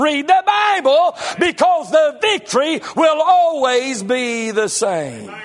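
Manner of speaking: slow, ringing preacher's shout; preaching shout. Real, not acted. Preacher shouting the answer back to his doubting flock. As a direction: hammer home the answer.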